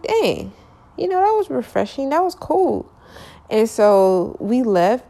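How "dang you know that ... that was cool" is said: high, delighted gush; excited. Real, not acted. Delighted recalling nice convo.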